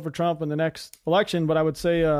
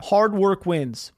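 slow mantra; much slower than usual. Acted. Reading out a simple mantra.

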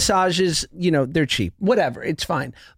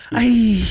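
drawn-out mock squeal of distaste; imitated masseuse noise; 3 semitones higher, 4 dB louder than usual. Mimicking the masseuse touching his love handles, imitated noise. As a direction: put on her voice for a wordless noise. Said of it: "now he does the voice".

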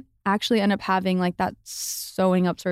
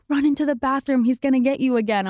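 urgent warning; 6 semitones higher than usual. Retold or imitated. Mom warns her to hide.

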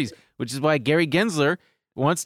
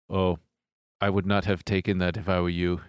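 monotone German man; 5 semitones lower than usual. Retold or imitated. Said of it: "And he goes".

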